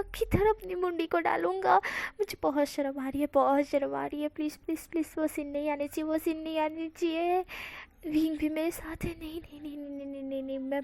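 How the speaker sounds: soft, panicked begging, please after please; pleading softly. Acted. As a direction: beg the story not to go on, growing fainter. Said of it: "विंग सुनता है कि वांग जी बोल रहा है कि".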